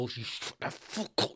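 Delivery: slow, voiceless shushing menace; whispered threat. Acted. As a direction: whisper it slowly to silence the room. Silencing anyone talking during the show.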